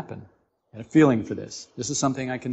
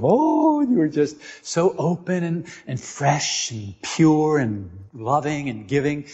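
tender; slower than usual. Acted.

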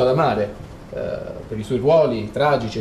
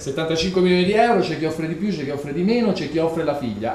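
fast, higher auction call; italian auctioneer; 3 semitones higher than usual. Acted. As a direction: rattle off bids like an auctioneer. Auction calling bids. (banditore d'asta italiano)

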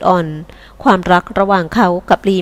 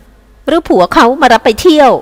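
slow sneer; 5 semitones higher, slower than usual. Acted. Mistress asks servant, sarcastic.

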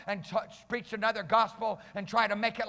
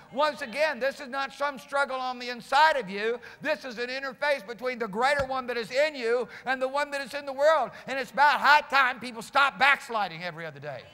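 forceful, raised preaching voice; full-force preaching; 5 semitones higher, 5 dB louder than usual. Real, not acted. Preacher urging people to stop backsliding, forceful preaching. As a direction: press the point home like a revival preacher.

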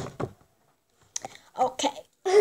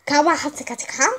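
fake Chinese gibberish. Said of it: "so parlare in cinese".

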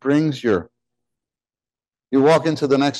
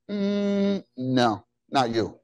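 gentle refusal; 6 dB quieter, much slower than usual. Acted. Voices the Lord's gentle refusal.

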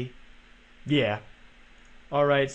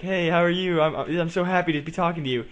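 bubbly, over-friendly fan voice, a little higher; mock cheery; 4 semitones higher than usual. A subscriber greeting Jake while stealing kills, mock cheery. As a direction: gush like an overly cheery subscriber. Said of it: "all be all cheery".

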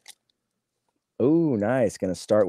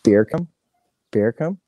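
two words run together, sounding Jamaican; questioning Jamaican-sounding blend, rising at the end; accidental Jamaican accent. Shown as a demonstration. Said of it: "you say those two words fast".

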